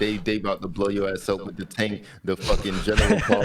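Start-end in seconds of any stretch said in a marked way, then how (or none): 2.2-3.4 laughing. Real, not acted. Laughing through the joke.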